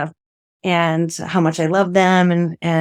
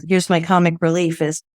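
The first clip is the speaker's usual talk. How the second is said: normal talking voice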